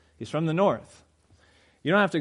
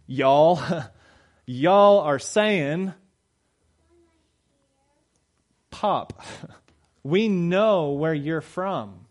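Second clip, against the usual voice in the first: mocking bystanders; 3 semitones higher, 4 dB louder, slower than usual. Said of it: "they go".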